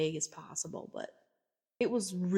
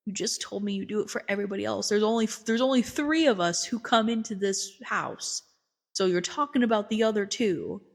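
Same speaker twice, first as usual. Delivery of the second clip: louder, emphatic calling-out; pointed retort; 2 semitones higher, 6 dB louder than usual. Retold or imitated. Therapist catches family promising secrecy after telling, pointed retort. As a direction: build from brisk to loud, pointed reasoning.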